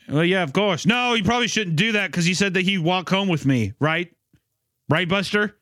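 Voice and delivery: sugar-coat the excuse; high falsely innocent kid. Acted. Arthur voiced sweetly, higher.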